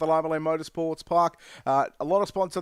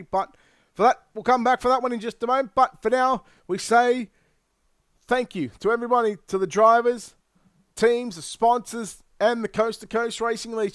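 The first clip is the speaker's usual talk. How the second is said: race announcer; 2 semitones higher than usual. Acted. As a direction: call it like a motorsport broadcaster wrapping up. Announcer signs off the race show.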